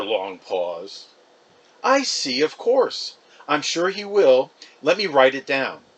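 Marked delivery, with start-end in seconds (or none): 1.8-5.8 mother politely agreeing; mother promising the caller to write it down; Mom on the phone. Acted.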